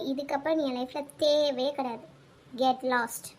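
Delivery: low-pitched, controlled hurt and contempt; cold rejection. Acted. Woman breaks off with boyfriend over insults, cold rejection. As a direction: end it coldly, voice dropped low.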